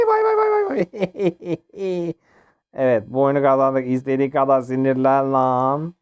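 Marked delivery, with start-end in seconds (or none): 0.1-2.1 high, slow, drawn-out mocking bye-bye; singsong goodbye taunt. Player waving off a beaten opponent, slow singsong taunt. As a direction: wave the loser off teasingly.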